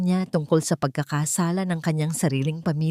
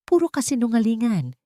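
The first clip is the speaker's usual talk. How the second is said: shouting; 6 semitones higher than usual. A narrator's reading. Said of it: "sigaw ni Doña Helena".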